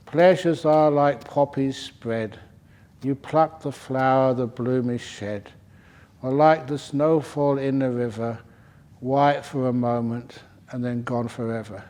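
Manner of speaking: measured poetic delivery, settling at the close; poem recitation. Acted. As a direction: recite it line by line, unhurried.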